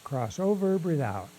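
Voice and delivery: calm, sparse cues with long silences; slightly hushed breathing instructions, unhurried; guided breathing meditation. Shown as a demonstration. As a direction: guide each breath gently, leaving long pauses.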